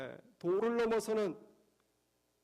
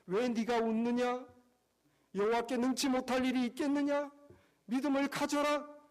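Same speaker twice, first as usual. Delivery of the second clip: God's voice; 4 semitones higher than usual. Acted. God voiced urging faith.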